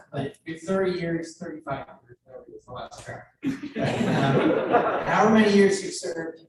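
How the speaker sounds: laughing through tears. Real, not acted. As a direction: laugh while speaking. Laughing after emotional moment.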